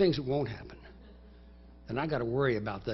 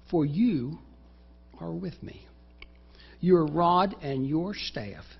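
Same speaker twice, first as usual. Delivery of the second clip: prayer to God; 2 semitones higher, 6 dB louder, slower than usual. Acted. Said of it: "speaks directly to God".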